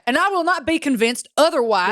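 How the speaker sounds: put-on deliberate Southern accent on every word; Southern accent redone. Redoing the line for the co-host who noticed, Southern accent. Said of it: "Do you wanna do it again?".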